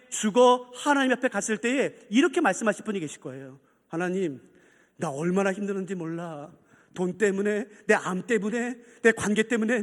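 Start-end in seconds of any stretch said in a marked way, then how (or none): 3.9-9.8 low, subdued acted lament; mildly pitiful, softened pleading; weary complaint. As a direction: list your burdens wearily to God. Weary believer complaining to God.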